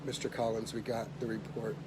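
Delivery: soft, subdued bad-news tone; retold nurse, carefully quiet; grave nurse. Nurse calling a patient with a report, soft and grave. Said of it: "her tonality was the same as his".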